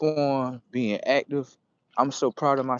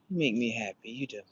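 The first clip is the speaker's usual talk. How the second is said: soft tender words; 5 semitones lower, 8 dB quieter than usual. Retold or imitated. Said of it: "I just be like".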